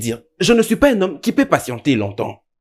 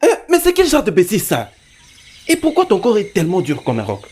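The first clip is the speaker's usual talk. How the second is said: exasperated scolding, only slightly raised voice; exaspération criée. Acted. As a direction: scold an inept pupil in exasperation. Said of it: "non, tu cries". (réprimande exaspérée, voix à peine haussée)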